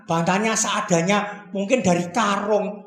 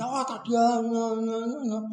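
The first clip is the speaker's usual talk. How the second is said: whispering; 6 dB quieter than usual. Acted. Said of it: "ngomong-ngomong bisik-bisik".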